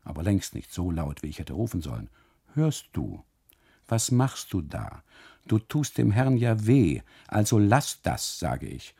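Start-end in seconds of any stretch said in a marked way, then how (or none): 2.5-8.4 calling somewhat louder. Acted. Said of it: "rufe ich nun etwas lauter".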